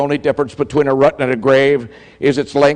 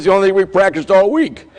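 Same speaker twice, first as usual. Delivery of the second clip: higher, louder, laughing through it; laughing quote; 7 semitones higher, 3 dB louder than usual. Retold or imitated. The coach to the referee, laughing about the practiced play. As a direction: laugh while you give it away.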